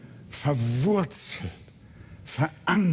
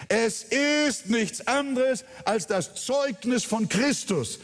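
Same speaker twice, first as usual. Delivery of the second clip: high, ringing pulpit voice, driving each line; full-force preaching; 7 semitones higher than usual. Acted. Pastor warning the church against empty sermons, full-force preaching.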